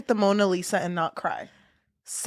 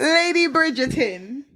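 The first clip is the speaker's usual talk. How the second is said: put-on British accent; 5 semitones higher, 3 dB louder, slower than usual. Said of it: "I'm really bad with accents".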